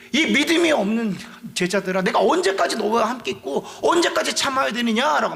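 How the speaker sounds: mild lament and scold together; lamenting rebuke. Retold or imitated. Jesus scolding the disciples who failed to heal, mild lament. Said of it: "한탄하시며 화를 꾸짖으신 거예요".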